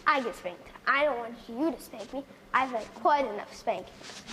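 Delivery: put-on child complaining of spankings; sulky, fearful child.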